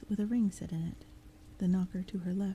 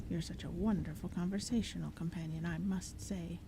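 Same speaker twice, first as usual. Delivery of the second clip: sarcastic; 3 dB quieter than usual. Acted. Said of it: "The first knocker said".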